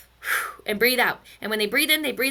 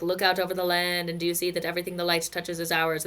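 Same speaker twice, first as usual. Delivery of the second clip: lightly voiced lion-king father; low, measured fatherly proclamation; a hint of a solemn royal father; Mufasa; 4 semitones lower, 4 dB quieter than usual. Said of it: "Mufasa Simba moment where they're like".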